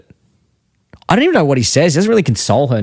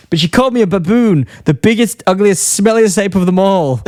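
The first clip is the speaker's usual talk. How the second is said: high-pitched mock-wounded whine; hurt Homer; 6 semitones higher than usual. Cartoon dad complaining his daughter insulted him, mock-hurt whine. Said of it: "And Homer's really hurt".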